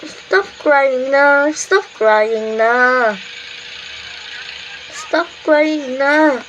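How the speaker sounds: very slow, drawn-out plea; pretend hushing. Older sibling hushing crying baby, slow mock soothing.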